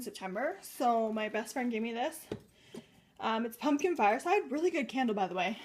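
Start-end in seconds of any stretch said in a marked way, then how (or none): 3.2-5.6 breathless after climbing stairs; out of breath. Real, not acted. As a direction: talk while catching your breath. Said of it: "Sorry, I'm out of breath".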